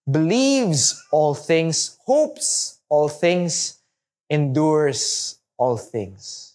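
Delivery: slow, measured Bible reading; scripture reading. Acted. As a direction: read each line slowly, with weight. Reads Bible verse aloud.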